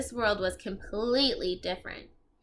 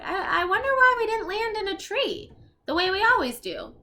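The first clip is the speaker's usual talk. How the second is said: put-on higher stammering boy's voice; puzzled boy; 10 semitones higher, 4 dB louder than usual. Jack puzzling over the landing, higher stammering boy. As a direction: play Jack, confused and stammering.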